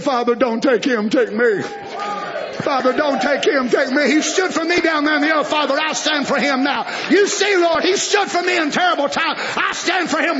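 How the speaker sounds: pleading mediator. Acted.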